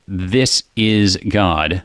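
This pointed and drawn out very slowly; stress on This. Shown as a demonstration. Host explaining the psalm to co-host, stress on This. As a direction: lean hard on This, slow pointing phrase. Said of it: "that very pointing language".

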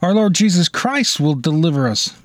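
ordinary talk, nothing marked

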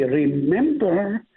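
ordinary talk

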